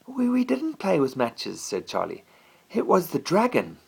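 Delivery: put-on a boy insisting to his cross father. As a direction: plead your innocence like a kid. Child defends himself to father.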